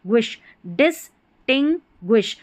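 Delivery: ग्विश, डिस्टिंग्विश said slowly with a clear gw sound; slow careful डिस्टिंग्विश, gwish clear; syllable by syllable. Shown as a demonstration. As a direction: stress the gw in डिस्टिंग्विश. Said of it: "ग्वी sound आ रहा है".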